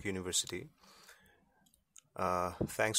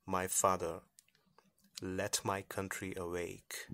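poem recitation. Acted. Guest reads Tagore poem aloud.

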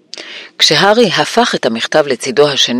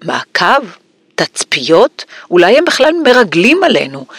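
paranoid questions climbing in pitch; crazed muttering; 5 semitones higher than usual. A narrator's reading. Uncle fearing they are watched, increasingly crazed. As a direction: build from musing to mild frenzy. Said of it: "מלמל הדוד ורנון כאחוז טירוף".

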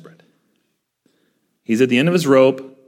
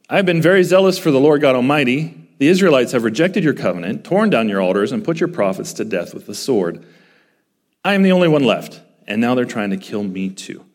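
frustrated venting; 3 semitones higher, 3 dB louder than usual. Retold or imitated. Elijah venting his complaint before God, loud and frustrated. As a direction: vent it hard, like a man at the end of his rope. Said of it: "a very different tone this time around".

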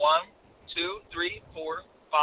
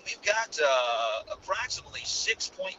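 airline captain announcement; 2 semitones lower than usual. Acted. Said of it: "this is your captain speaking".

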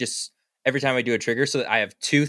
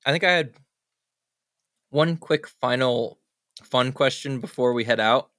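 talking around a cough drop; chewing a lozenge while speaking; mouth full. Real, not acted. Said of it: "I'm chewing on a cough drop".

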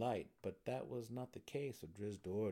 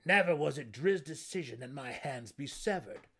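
raised, forceful protest; loud insistence; 5 semitones higher, 9 dB louder than usual. A narrator's reading. Warden defending the drow to incredulous gnomes, loud insistence. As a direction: insist loudly to a doubting crowd. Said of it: "Belwer interjected loudly".

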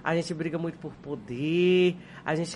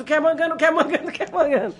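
higher, playful repeated question; chat asking; 7 semitones higher, faster than usual. Retold or imitated. Mimicking her chat asking over and over, lightly higher. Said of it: "Aí começa".

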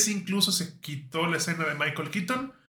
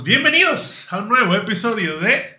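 slow, loud announcer read; mock radio host welcome; podcast announcer intro; 4 semitones higher, 4 dB louder, slower than usual. Shown as a demonstration. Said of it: "Cuando digamos".

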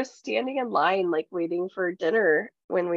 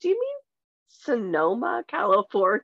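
mock sarcasm. Friend mocking Morgan's geography, sarcastic. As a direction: tease her with fake confusion. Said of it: "I was like".

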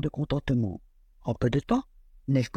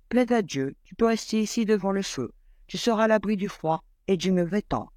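higher, lightly voiced kind mother; 4 semitones higher than usual. Mother welcoming the cold bear inside, lightly voiced kind mother. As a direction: welcome him gently, a hint of mother.

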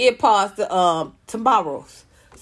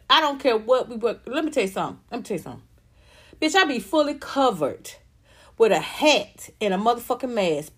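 ordinary delivery

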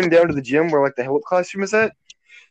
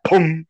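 imitated popping boom; popping car-door boom. Shown as a demonstration. Demonstrating the rental's door to friends, a popped boom. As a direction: sound out a door popping open. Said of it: "That's what it sounds like".

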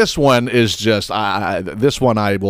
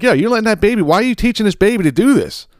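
high-pitched mock scold, much higher; squeaky mocking impression of an outraged bystander; mock scolding shopper; 9 semitones higher than usual. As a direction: ape the lady calling her out, pitched way up. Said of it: "Now she's like".

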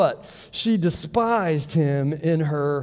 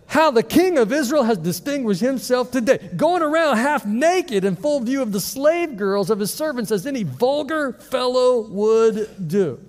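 higher, sharp and mocking, with neck attitude; sassy neck-snapping tone; 4 semitones higher than usual. Preacher voicing Michal scolding David with sass. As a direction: snap it at him like a scornful wife. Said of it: "you gotta snap your neck just a little bit".

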